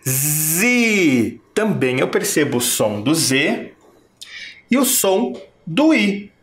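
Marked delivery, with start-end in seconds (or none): 0.1-1.4 zi isolated and clear; syllable sounded out. Shown as a demonstration. Teacher isolating a syllable for pupils. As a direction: say zi on its own. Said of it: "E quando eu digo zi".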